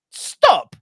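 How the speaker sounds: sudden high yelled stop; jokey outburst at the titles; mock yell. Real, not acted. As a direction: yell it like begging him to quit. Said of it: "mock plea to Liam".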